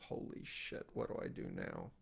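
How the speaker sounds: unvoiced panicked whisper; whispered to self. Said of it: "I was like to myself".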